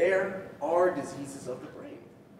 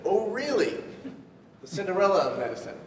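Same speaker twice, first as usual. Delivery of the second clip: mock-incredulous, higher-pitched retort; scornful father; 5 semitones higher than usual. Father reacting to a child choosing psychiatry, mock scorn. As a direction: act out a father's dismissive reaction. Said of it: "when I told him that I wanted to specialize in psychiatry, he said".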